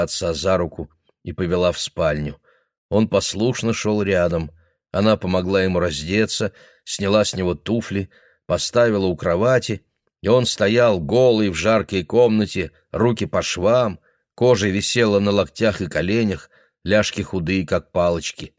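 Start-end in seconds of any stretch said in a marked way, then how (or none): none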